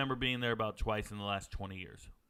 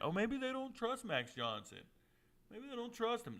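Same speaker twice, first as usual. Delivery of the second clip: raised, teasing sing-song; high mocking tease; 10 semitones higher, 6 dB quieter than usual. Real, not acted. Streamer mocks the A and M coaches in a high teasing voice. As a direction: poke fun at the coaches.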